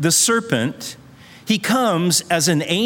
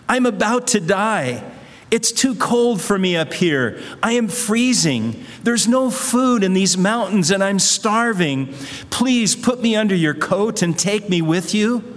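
higher, begging snake; pleading snake voice; 4 semitones higher than usual. Acted. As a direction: plead to be carried to warmth.

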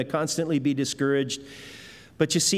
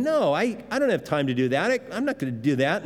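grudging refusal; faster than usual. Retold or imitated. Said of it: "grudgingly going".

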